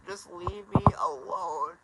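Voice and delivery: pleading cry. Real, not acted. Drunk man crying begging to be left alone.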